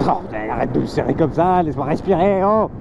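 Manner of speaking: squeezed tight, short of air; being squeezed. Real, not acted. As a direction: talk while hugged too hard. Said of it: "elle va m'étouffer".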